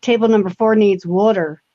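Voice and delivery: New York waitress's "water" as "worter"; imitated New York accent. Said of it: "I didn't understand when she said".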